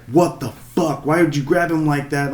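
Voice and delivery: a hint of an outraged mother; mild mock outrage. Mother scolding the boat guy, mild mock outrage. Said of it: "the woman fucking flipped".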